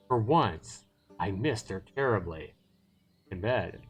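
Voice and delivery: measured storytelling with deliberate pauses; story narration. Acted. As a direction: read the story out dramatically, phrase by phrase. Reads the story narration aloud.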